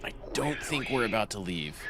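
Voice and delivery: like a sinister computer; creepy AI voice. Pretend. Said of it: "Creepy A I voice".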